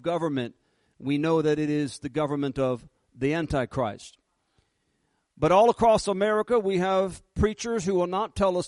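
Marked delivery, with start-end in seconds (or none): 5.4-8.7 louder, higher and fast, full preaching force; preaching shout. Real, not acted. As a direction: hit it hard from the pulpit.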